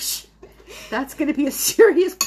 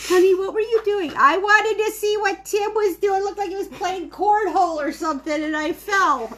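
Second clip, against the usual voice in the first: a hint of a fussing old couple, higher and louder; imagined husband and wife; 7 semitones higher, 4 dB louder than usual. Old mom explaining her fall to her husband, mildly voiced. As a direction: lightly voice the husband scolding, then the wife explaining. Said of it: "Don't you picture it?".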